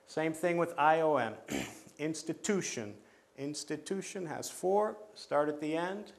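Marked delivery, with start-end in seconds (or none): 2.0-4.2 "Institution" stressed on TU; stress on third syllable. Shown as a demonstration. Teacher showing count-back rule, stressing TU in "institution". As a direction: lean on TU each time in "institution". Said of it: "count back one".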